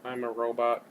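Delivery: stiff mechanical robot voice. Acted. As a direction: speak like a machine. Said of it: "This is my robot voice".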